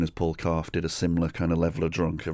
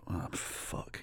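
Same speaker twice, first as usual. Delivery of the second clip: whispered dread; 15 dB quieter than usual. Retold or imitated. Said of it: "speaker's own reaction, whispered".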